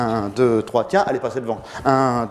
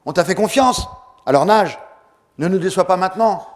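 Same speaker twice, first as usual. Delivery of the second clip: louder, pushing voice of the team; team yelling at him; 4 semitones higher, 4 dB louder than usual. Retold or imitated. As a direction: shout encouragement at a tired swimmer. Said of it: "deux cents personnes qui me gueulent dessus". (l'équipe qui lui gueule dessus, voix plus forte)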